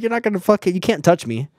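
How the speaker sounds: hammed-up yelling back at staff; retold yell. Quoting himself yelling at staff, high and loud.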